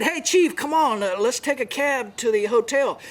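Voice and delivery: a lightly voiced Yoki inviting him along; Yoki calling him. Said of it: "So he said".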